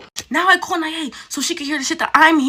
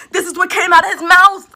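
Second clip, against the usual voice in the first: emphatic shout; 4 semitones higher than usual. Real, not acted. Insisting to the ladies it was his verbatim words, emphatic shout. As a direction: call it out to the ladies.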